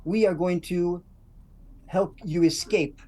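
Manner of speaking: loud, rousing call to the freed slaves; rallying speech in character. Acted. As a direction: urge them to listen and pretend to work, slowly. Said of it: "So I go".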